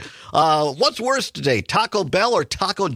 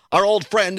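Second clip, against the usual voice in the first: sarcastic mock fondness, pitched up; 4 semitones higher than usual. Real, not acted. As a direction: raise the voice in pointed sarcasm. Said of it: "I say that sarcastically".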